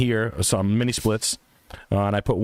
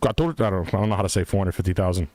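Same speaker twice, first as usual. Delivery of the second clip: higher, hammed-up Puerto Rican accented English; mock Puerto Rican realtor; 6 semitones higher than usual. Pitching a Puerto Rico house to listeners, hammed-up Puerto Rican accent. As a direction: sell the house like a brash Puerto Rican agent.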